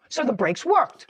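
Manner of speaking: slow, pointed courtroom questioning; tv judge. Real, not acted. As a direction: lay out the point like a stern judge. Judge cross-examining the defendant.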